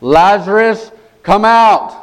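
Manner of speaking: high, ringing call to the dead man; commanding shout to a dead friend to come out; loud cry. Acted. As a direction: call him out of the tomb at full voice. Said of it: "he cried with a loud voice".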